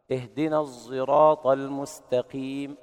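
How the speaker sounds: slow chant with ص shaded into a ز sound; الصراط said zeraat-like, between ص and ز; sad blended with zay. Shown as a demonstration. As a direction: recite الصراط with ص voiced toward ز. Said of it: "هكذا".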